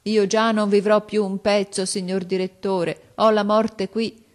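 mother weeping as she pleads for her son; praying and weeping. A narrator's reading. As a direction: plead through tears, near breaking. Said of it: "pregando e piangendo".

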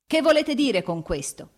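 alarmed cry, high and loud; grido. A narrator's reading. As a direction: raise the voice in a sharp demand. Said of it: "ella gridò". (gridato, con orrore)

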